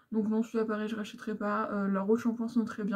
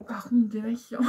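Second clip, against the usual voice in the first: whisper; 4 dB louder than usual. Real, not acted. Teasing lead-in to makeup remover.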